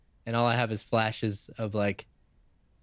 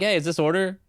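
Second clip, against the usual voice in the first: mock fed-up; 7 semitones higher than usual. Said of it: "I'm like".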